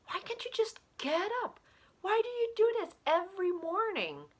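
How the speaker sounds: a husband at the end of his rope, voice climbing; rising in despair. Acted. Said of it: "His voice rises in despair".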